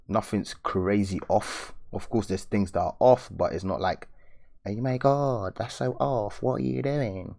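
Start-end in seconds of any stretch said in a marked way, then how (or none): 4.7-7.4 higher mock-shocked critic; lightly put-on high scolding voice; funny high voice. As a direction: squeal it out like a fussy judge. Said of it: "Why did I just speak like that?".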